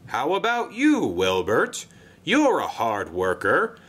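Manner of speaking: a jolly controller pitching a job; Sir Topham Hatt voice. Acted. Controller coaxing Wilbert into the job, cheery and high.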